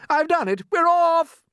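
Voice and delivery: high, loud victory cry; triumphant shout. Acted. Centipede shouts down through the ceiling, triumphant. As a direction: crow over the cut stem.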